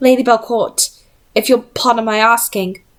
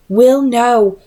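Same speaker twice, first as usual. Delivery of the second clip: firm refusal; 3 semitones higher, 4 dB louder than usual. Acted. Charlotte forbidding Will.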